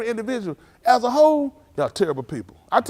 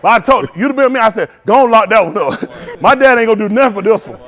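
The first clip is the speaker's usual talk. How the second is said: laughing; 3 semitones higher, 11 dB louder than usual. Real, not acted. Laughing at the memory.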